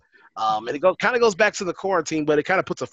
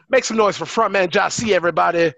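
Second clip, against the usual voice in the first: hype announcer; 3 semitones higher, 4 dB louder than usual. Acted. Host hypes guest's entrance.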